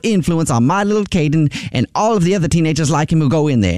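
outraged parent. Acted. Prank caller scolding the hat shop owner, outraged. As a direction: play the self-righteous dad who blames everyone else.

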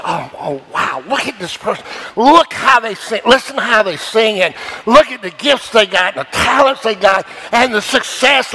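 gushing mock awe at the talented; mock admiring world. Preacher mocking how the world gushes over stars. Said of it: "The world says".

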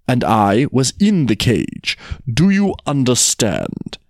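slow, firm, spaced words; laboured explanation. Acted. Tiger checks the jackal follows, slow and insistent. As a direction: press each point home.

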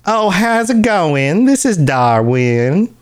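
slow, drawn-out imitation of Darwin's high greeting; imitating Darwin. Coworker imitating Darwin's folksy greeting for a friend, slow and high. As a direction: mimic a folksy salesman's welcome, stretched slow. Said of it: "he talked like this".

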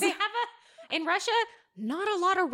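laughing through the joke; talking through real laughter. Real, not acted. Laughs while joking.

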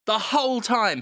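ordinary talk, nothing marked

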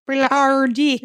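put-on a quick jokey Australian-accent blurt; a hammed-up Australian-accent mumble; laughing through a fake Australian accent; mock Australian accent. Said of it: "that's what they all sound like".

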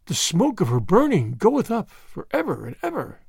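a touch of a crazed preacher; demented prophecy. Acted. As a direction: intone it like a half-mad prophet. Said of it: "broke out again like one demented".

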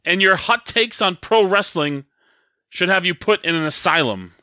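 playful mock tirade; mock-heated grievance at a friend; bringing the heat. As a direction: deliver the insult like a wrestling promo. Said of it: "you're bringing the heat".

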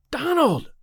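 high, breathless gasp of recognition. A narrator's reading. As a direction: gasp the name in shock. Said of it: "she gasped".

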